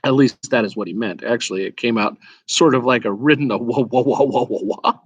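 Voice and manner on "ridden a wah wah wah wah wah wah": words dissolving into horse whinnies; horsey whinny. Acted. Angry horse whinnying at the boy. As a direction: let the words break into a neigh. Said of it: "more horsey in accent when they're angry".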